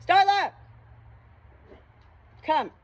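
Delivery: loud call across the yard; calling the hen. Real, not acted. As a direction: shout the hen's name to bring her over.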